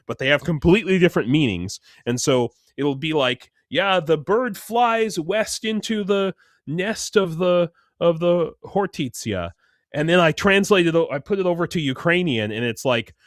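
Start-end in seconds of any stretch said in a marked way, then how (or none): 3.7-9.5 mock translation voice. Mock garbled translation read out.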